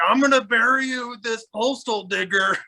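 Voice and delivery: high-pitched imitation of a scary uncle; mock menacing threat. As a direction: threaten like a crazed chaser, played for laughs.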